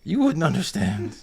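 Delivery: high, upset goblin croak. Acted. Crying goblin tells the comforter of his pain, high croak. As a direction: lament in a high, croaky creature voice. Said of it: "croaks and he goes".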